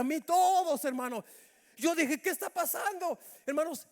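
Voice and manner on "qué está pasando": higher-pitched retold startled question; alarmed bewilderment. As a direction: act out sudden confusion at oncoming traffic. Acting own alarm at oncoming cars.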